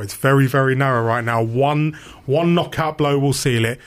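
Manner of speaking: re-enacted match report, punched up a little; halftime report. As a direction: deliver a punchy on-air boxing-style verdict. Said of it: "I do the halftime report".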